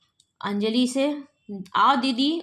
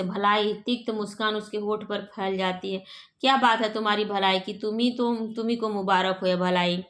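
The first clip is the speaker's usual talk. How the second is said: a touch of sarcasm, bitter and dismissive; mock his goodness with a sneer; sarcastic. Sister mocks her brother's virtue, mildly sarcastic. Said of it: "Anjali व्यंग से".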